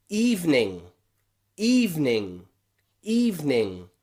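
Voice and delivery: "evening" as EEV-ning, stress up front; stressed first E. Shown as a demonstration. Teacher gives learners an example word, stressed E. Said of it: "when the E is the stressed part, we pronounce it E".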